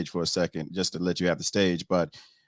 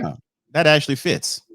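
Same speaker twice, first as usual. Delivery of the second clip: retold amused surprise; 7 semitones higher, 6 dB louder than usual. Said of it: "and I was like".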